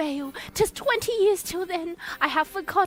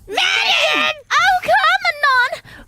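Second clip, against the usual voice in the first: calling out; 12 semitones higher, 8 dB louder, much slower than usual. Acted. Answering nurse calling offstage.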